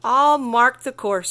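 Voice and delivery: squawking Roadrunner. Acted. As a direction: shout it like a bird. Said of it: "squawked Roadrunner".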